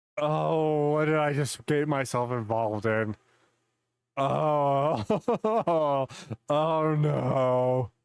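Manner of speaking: very slow, sinking, dismayed tone. Watching a clip, imitating an officer: imitating a dismayed officer. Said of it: "he's like".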